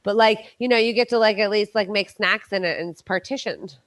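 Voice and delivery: mouth full. Real, not acted. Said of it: "You burned your mouth".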